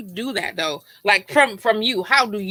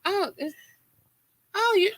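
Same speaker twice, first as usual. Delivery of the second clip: higher, breaking into laughter mid-quote; laughing imitation; 9 semitones higher, 4 dB quieter than usual. Retelling her friend's reaction: a higher, laughing mimic. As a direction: giggle through the quote as she acts it out. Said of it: "she was like".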